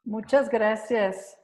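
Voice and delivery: slow, deliberate thanks; slow motion. Real, not acted. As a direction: stretch out every syllable. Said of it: "Voy a hablar muy despacio".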